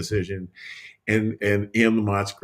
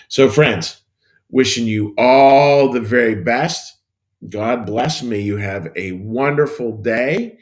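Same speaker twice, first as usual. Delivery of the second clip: 1 hearty farewell; 2 semitones higher, 7 dB louder, slower than usual. Real, not acted. Signing off to viewers.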